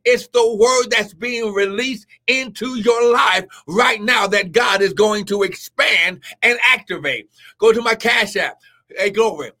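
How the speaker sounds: shouted, driving appeal; preaching at full force. Real, not acted. Preacher urging listeners to sow a seed, shouting. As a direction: press them hard, preaching.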